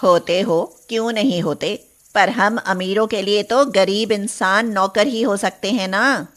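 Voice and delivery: low, condescending mistress voice; a hint of a snobbish rich woman; haughty mistress. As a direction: talk down to the servant. Haughty mistress answers servant.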